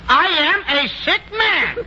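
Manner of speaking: faking sickness. Acted. Suddenly faking illness for the nurse.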